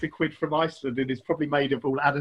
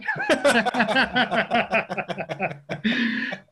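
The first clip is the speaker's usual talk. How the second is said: real, higher-pitched sustained laughter; long laugh; 6 semitones higher than usual. Real, not acted. Teller cracking up at his own punchline, long laugh. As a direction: burst out laughing and keep going.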